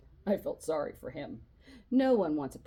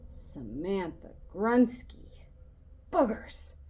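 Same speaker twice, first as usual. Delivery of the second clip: loud call; 2 semitones higher, 3 dB louder, slower than usual. A narrator's reading. Voice at the front calls Samantha's name out loud. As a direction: call the roll loudly. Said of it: "a loud voice".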